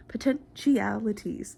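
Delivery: POTENTIALITIES stretched out syllable by syllable; drawn-out repeat. Shown as a demonstration. Vlogger playfully repeats a word to viewers, drawn out. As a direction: draw out "Potentialities" slowly for playful effect.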